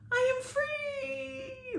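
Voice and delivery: very high, slow, ringing cry of freedom; a freed fairy rejoicing; fairy shouting with joy at her release; tiny high shout. A narrator's reading. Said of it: "the tiny and high voice shouted".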